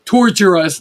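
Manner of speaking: mock slip, "Torture us" for torches; mocking mispronunciation. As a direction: mimic the critics' version "Torture us", ending on a fall. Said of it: "I don't know how to say torches".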